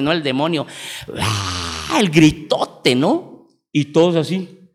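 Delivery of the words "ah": imitated demon scream. Preacher imitates the scream heard during worship, mock demonic cry. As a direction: imitate a possessed cry without full volume. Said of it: "de repente el gritote".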